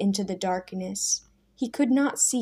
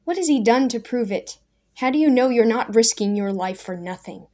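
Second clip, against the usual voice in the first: demanding challenge; 3 semitones higher, 5 dB louder than usual. Acted. Daniel demands proof.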